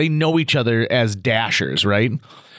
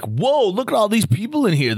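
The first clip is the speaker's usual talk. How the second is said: a hint of a gawking newcomer, higher voice; talking to the room; 8 semitones higher than usual. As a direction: announce it to nobody in particular. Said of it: "just talking into the world".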